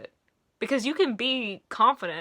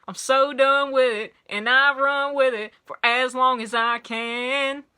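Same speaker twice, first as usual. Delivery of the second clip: put-on Southern accent; 2 semitones higher, 4 dB louder than usual. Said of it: "you can hear it already coming out".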